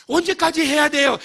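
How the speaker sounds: high, loud whine; mock deaconess question. Deaconess asking the pastor, high and plaintive. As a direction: ask as a weary deaconess.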